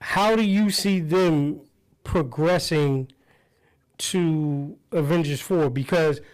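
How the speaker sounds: muffled, as if through a wall. Real, not acted. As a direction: voice dulled and far off. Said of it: "You, you sound muffled".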